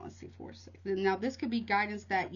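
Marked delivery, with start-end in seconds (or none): 0.0-0.8 hushed count, just for yourself; whispered counting. Real, not acted. Reader counting off cards to herself, in a whisper. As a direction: whisper the numbers under your breath.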